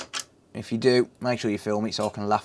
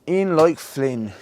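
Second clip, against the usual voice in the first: In like Flynn sung out higher and louder, drawn out; triumphant repeat; 4 semitones higher, slower than usual. Shown as a demonstration. Streamer celebrating to viewers as the repair comes together, triumphant. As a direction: crow it like a win. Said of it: "higher, louder repeat".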